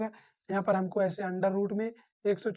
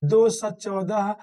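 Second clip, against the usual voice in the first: slow recitation; 3 dB louder, much slower than usual. Shown as a demonstration. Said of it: "recites the times table".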